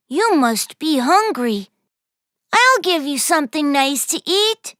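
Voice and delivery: gentle and kind; friendly voice. Acted. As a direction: offer food kindly. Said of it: "with a friendly voice".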